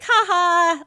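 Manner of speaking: high, loud mimicked giggle; husband giggling at security, mock laugh.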